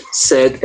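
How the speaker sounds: "Said" with a short open e, no i sound; said like sad. Shown as a demonstration. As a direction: say "Said" as /sɛd/, rhyming with sad. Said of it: "Isso é a mesma pronúncia de sad". (diga "Said" como /sɛd/, igual a sad)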